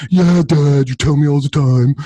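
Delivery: lightly voiced eye-rolling kid; a hint of a dismissive boy; bored son. Son brushing off his dad at dinner, lightly bored. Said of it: "only the attitude that you can imagine".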